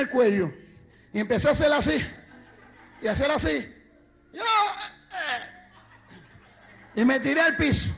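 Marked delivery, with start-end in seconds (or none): 4.3-5.6 high, soft strangled gagging; mock choking. Son faking strangling himself for his parents, mock choking. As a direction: act out being choked by a belt. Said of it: "yo quise hacer un drama".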